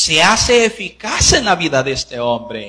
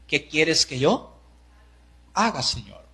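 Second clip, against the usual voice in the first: humble plea; 8 dB quieter than usual. Acted. Humble prayerful quote.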